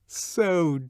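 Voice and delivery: slow, coaxing and inviting; cajoling. A narrator's reading. Lenina cajoling Bernard, slow and inviting. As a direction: coax him, drawn out. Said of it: "inviting and voluptuous cajolery".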